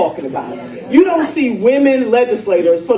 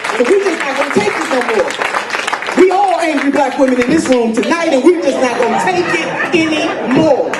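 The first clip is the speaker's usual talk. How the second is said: rallying shout; 4 semitones higher than usual. Real, not acted. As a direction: build to a shout of defiance. Rallying crowd, defiant climax.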